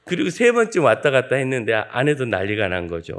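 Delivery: usual speaking voice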